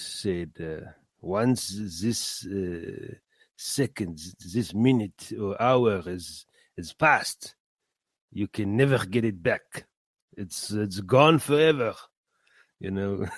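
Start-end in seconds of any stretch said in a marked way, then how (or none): 1.2-11.9 lightly imitated German accent; a hint of a German mentor's accent. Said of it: "in his, uh, German accent".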